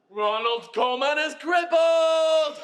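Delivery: slow, loud, laughing announcement of the news; gleeful shout. Acted. Husband gloats to wife over the news, shouting with glee.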